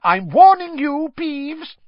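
high, loud, clipped threat; stern warning. A narrator's reading. McGonagall warns Peeves, loud and stern. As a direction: warn him, furious.

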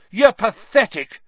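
put-on high, loud boy's outburst; angry yell. A narrator's reading. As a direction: yell the insult at him. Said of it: "Harry yelled".

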